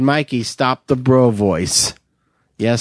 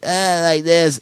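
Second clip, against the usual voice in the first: beer geek voice; 2 semitones higher, slower than usual. Shown as a demonstration. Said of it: "beer geek guy is like".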